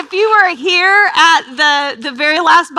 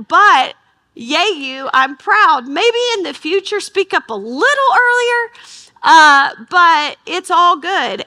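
slow, rising, sweetly exaggerated cheer; sing-song praise; 4 semitones higher than usual. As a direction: pat him on the back, overly sweet. Retelling encouraging words to husband.

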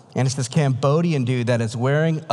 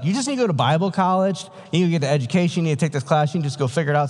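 a higher, fast, lecturing pastor voice, lightly done; brushing-off pastor; 5 semitones higher, much faster than usual. Retold or imitated. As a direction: rattle off the advice like a pastor who wants you gone.

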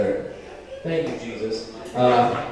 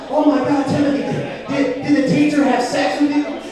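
high-pitched, shocked questioning; appalled concern, pitched well up; alarmed adult questioning child; 8 semitones higher than usual. Acted. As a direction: play a worried grown-up asking a kid, voice raised. Acted adult questioning child about teacher.

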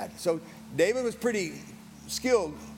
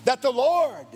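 preached shout; 11 semitones higher, 6 dB louder, slower than usual. Acted. David's shout to Goliath.

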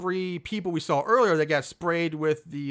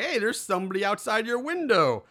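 higher-pitched mock alert; retold heads-up, pitched up; imitated warning; 6 semitones higher than usual. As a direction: call out a light warning.

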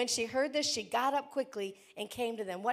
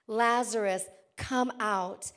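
Lazarus called louder, falling and firm; slower than usual. Acted. Pastor voicing Jesus calling Lazarus from the grave, louder. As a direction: call him out of the grave with force. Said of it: "Jesus called in a loud voice".

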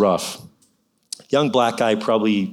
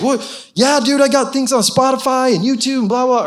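high, eager rapper voice, tumbling out; imitating excited rapper; 12 semitones higher than usual. Drive-thru rapper to the preacher, high and eager. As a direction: mimic a young guy thrilled to be noticed. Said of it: "he's just freaking out".

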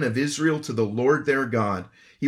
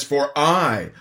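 incredulous; 6 dB louder, much slower than usual. Retold or imitated. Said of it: "more of a tone of just incredulity".

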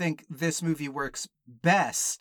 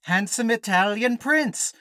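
lightly put-on Italian prince, drawn-out and loud; a slow, showy hint of a princely character; Italian prince bit; 5 semitones higher, 4 dB louder, slower than usual. Opening bit posing as Italian prince.

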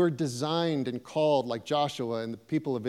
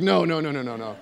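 mock refusal; faster than usual. Refusing God's call to be principal.

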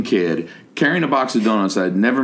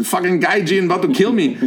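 high-pitched, alarmed imitation; mock panic; 8 semitones higher than usual. Student fearing the stranger will kill him, high mock alarm. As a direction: voice a scared student comically.

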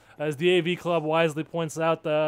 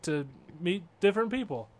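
Greendale ad quote; 4 semitones higher than usual. Retold or imitated. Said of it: "the old Greendale ad".

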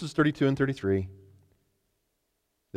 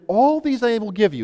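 tempting Satan; 10 semitones higher, 6 dB louder than usual. Acted. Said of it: "And he said to him".

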